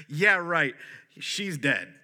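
short mock laugh, then a dismissive retort; mocking laughter. Crowd scoffs at Jesus in disbelief, mocking laughter. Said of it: "they're laughing. The crowd laughed at him".

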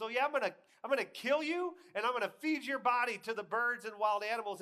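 loud, high, hammed-up threat; mock trash talk. Goliath threatening young David, hammed-up shouting. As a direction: shout it like playground one-upmanship.

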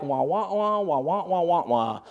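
soft, droning "wah wah wah" like a voice you tune out. Retold or imitated. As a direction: let the "wah wah" sag into a faint mock drone. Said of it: "it's sorta like".

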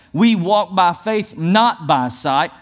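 slow, with "not" hit hard; stress on NOT. Shown as a demonstration. Pastor reading scriptures, slow emphatic "not". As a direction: stretch it out and punch "not". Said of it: "emphasize the word".

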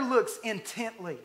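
"intently" drawn out slowly for emphasis; emphatic stress. Real, not acted. Preacher highlighting one word of the verse for the congregation, emphatic. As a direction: lean hard and slow on "intently". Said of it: "I want to emphasize that word".

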